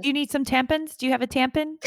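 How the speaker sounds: "tampons" and "tampon" ending in -pins and -pin; mum's pronunciation. Retold or imitated. Mum offering supplies, "tampon" said as "tampin". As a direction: weaken the last vowel of "tampon" to -pin. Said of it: "My mom calls tampons".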